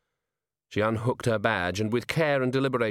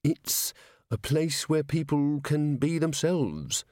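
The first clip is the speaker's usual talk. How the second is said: slow, careful explanation, pitched higher; said slowly; 4 semitones higher, slower than usual. A narrator's reading. Angua explains the bar to Cheery, slowly. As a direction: pick the words out slowly. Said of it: "said Angua slowly".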